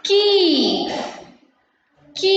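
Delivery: "Key" with the ee held long; long E sound. Shown as a demonstration. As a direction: stretch the vowel of "Key" for learners. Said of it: "The E in the key has a long sound".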